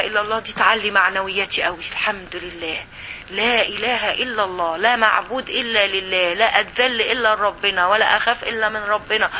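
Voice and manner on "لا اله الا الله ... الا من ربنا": slow, measured affirmation; deliberate pace, each vow set apart; slow declaration of faith. Acted. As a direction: spell out the creed slowly, phrase by phrase. Declares the creed as her resolve.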